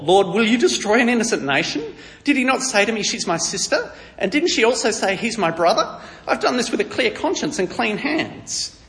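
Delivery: high, loud, panicked protest; freaking out. Acted. Abimelech protesting his innocence to God, freaking out. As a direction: plead innocence in an acted panic, pitched well up. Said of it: "absolutely freaks out".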